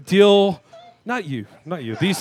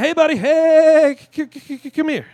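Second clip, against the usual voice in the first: high shouted call; 11 semitones higher, 8 dB louder than usual. Retold or imitated. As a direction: stretch it out, calling him back. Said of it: "I'm like".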